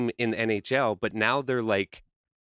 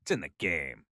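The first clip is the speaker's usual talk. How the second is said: announcer voice; 8 semitones lower, 6 dB quieter than usual. Retold or imitated. EA Sports slogan voice.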